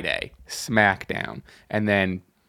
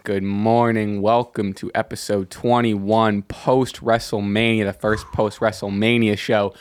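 slow, easy, settled welcome; calm energy; slower than usual. Shown as a demonstration. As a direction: ease into the show calmly. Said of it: "come in with, like, a, a calm energy".

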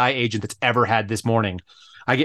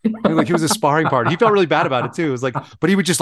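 usual speaking voice

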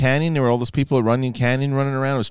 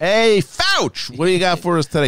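calling out; 7 semitones higher, 3 dB louder than usual. Pretend. Greeting Fauci like the Fonz.

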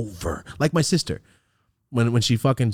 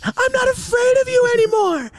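loud, very high triumphant shout; Home Alone kid; 5 dB louder than usual. Retold or imitated. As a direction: shout it like a child defying a monster. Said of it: "the Home Alone".

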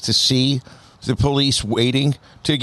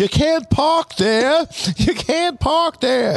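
robot parking voice; 12 semitones higher, much slower than usual. Pretend. Mocking robot traffic enforcer.

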